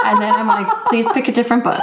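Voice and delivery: laughing pleading. Retold or imitated. Pleading retold to toddler.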